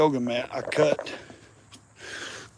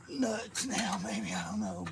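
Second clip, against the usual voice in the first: breathy under-the-breath whisper to himself; 4 semitones higher, 9 dB quieter, slower than usual. Real, not acted. Whispering to himself while loosening nuts. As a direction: mutter it to yourself, barely voiced. Straining at a stuck bolt.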